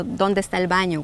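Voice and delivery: ¿Dónde está el baño? said quickly and natively; Spanish pronunciation. Shown as a demonstration. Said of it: "a useful one is also".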